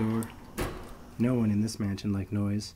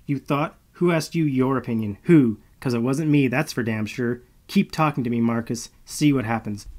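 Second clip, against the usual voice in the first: angry threat; 2 semitones higher, 5 dB louder than usual. Acted. Malo threatening Marcus.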